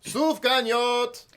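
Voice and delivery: Sufganiyot said slowly, syllable by syllable; teaching a Hebrew word. Shown as a demonstration. Teaching children the Hebrew word Sufganiyot, slowly. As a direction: spell out Sufganiyot slowly: soof-gah-nee-YOTE. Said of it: "here's the word for donuts in Hebrew".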